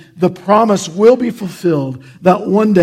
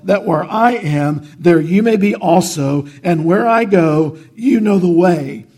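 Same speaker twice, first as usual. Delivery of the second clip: scripture reading. Acted. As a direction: let each line of scripture land with weight. Reads John fourteen aloud.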